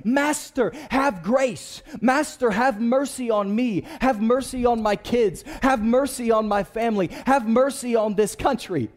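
lightly acted plea for mercy; calling out to Jesus. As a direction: plead in a rolling, repeated appeal. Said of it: "we are calling out to Jesus".

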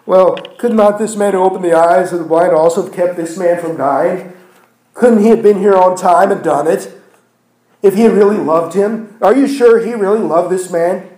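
mock doubters pushing back; doubting challenge. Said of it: "that doubt rising up that said".

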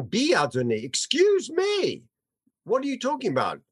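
high, indignant protest; a mother voiced in mock outrage at the priest; upset outburst. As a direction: snap back at him in disbelief. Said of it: "she gets really, really upset".

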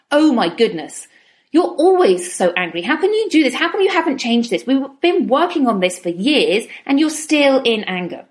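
mock-scold yourself like an impatient critic; self-scolding inner voice. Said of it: "instead of going".

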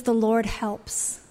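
said very slowly, each word apart; drawn-out reverent emphasis; slow, weighty reveal. Shown as a demonstration. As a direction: let the meaning land word by word. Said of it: "The name Ezra means".

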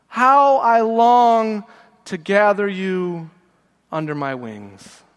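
very slow, softening to a hush; tender longing. Acted. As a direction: ache through it slowly, letting it fade. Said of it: "feel God's pain coming out of Jesus's mouth".

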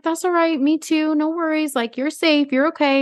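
high, gentle mock reassurance; overly sweet cop voice; mock soothing officer. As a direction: imitate the officer calming her.

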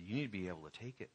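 hushed urgent plea; low-key firm urging; quiet insistence. Retold or imitated. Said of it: "I said".

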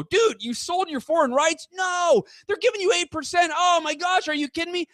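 mock the authors shouting in disbelief; incredulous outburst. Self-published authors shouting at him over foreign rights, incredulous yell.

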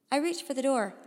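tense first-person story reading; story narration. A narrator's reading. Boy telling how the black sphere appeared, suspenseful narration. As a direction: read it like a suspense tale, measured.

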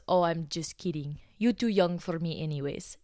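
imitated Russian customer teasing; joking along in a Russian accent; thick Russian accent. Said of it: "with a thick Russian accent".

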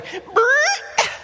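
very high silly brrrt noise; kid noise. Retold or imitated. Big brother barging in on little brother, silly noise. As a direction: blurt a high childish sound. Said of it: "I say".

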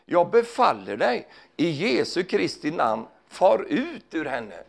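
slow, firm command to a spirit; commanding Paul. Acted. Paul casting out the spirit, slow commanding voice. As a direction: lay down each word with authority.

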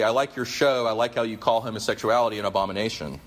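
a touch of sarcasm; mock praise, lightly sarcastic. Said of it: "Bartlett says to her sarcastically".

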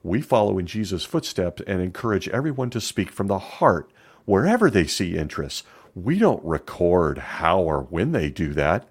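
lightly voiced smug witness, slowing at the end; a hint of a sanctimonious elder testifying; mock witness testimony. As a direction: play the pious evasive witness on the stand. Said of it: "gets on the stand and says".

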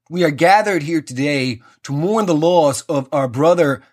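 pompous mock-American funeral priest; mock mid-Atlantic pulpit drawl; booming mid-Atlantic drawl. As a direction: intone it grandly in a mid-Atlantic accent. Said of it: "with his big booming fucking mid-Atlantic drawl".

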